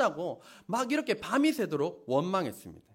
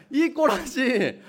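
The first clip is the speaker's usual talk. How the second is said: laughing; 2 semitones higher, much slower than usual. Real, not acted. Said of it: "laughs at the word".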